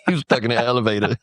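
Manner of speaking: laughing through the words; giggling while speaking. Real, not acted. Laughing while telling the story.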